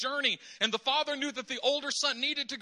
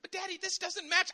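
whiny daughter; 9 semitones higher than usual. Retold or imitated. Eight-year-old daughter protesting her outfit, high and whiny. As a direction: whine like a little girl. Daughter objects, voiced by father.

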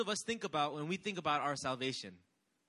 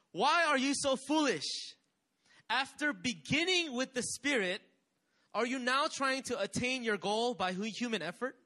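Paul's angry rebuke; 4 semitones higher than usual. Retold or imitated. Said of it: "he's angry".

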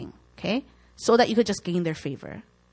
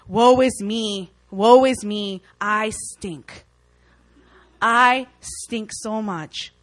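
very slow, moping wail; hammed-up self-pity; mock self-pity; 5 dB louder, much slower than usual. Hurt believer wallowing after criticism, slow moping mock lament. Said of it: "you start going into, like".

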